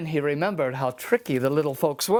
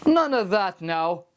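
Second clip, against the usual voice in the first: triumphant; 5 semitones higher than usual. Acted. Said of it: "said Seamus triumphantly".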